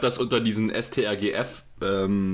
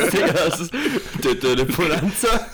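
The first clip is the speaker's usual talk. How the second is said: hoch, laut lachend die Melodie anstimmen; 6 semitones higher, 5 dB louder than usual. Real, not acted. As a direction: vor Lachen kaum die Töne treffen. Lachend Bonanza-Melodie angesummt. (lachend, hoch und laut gesungen)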